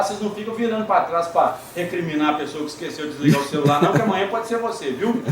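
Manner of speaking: ordinary talk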